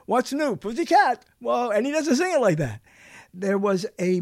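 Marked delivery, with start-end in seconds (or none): 0.1-1.2 exclaimed. Shown as a demonstration. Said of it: "with an exclamation point, it would be".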